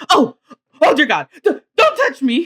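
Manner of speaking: imitating a panicking doctor; hammed-up alarmed recoil; mock freak-out. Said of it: "freaking out".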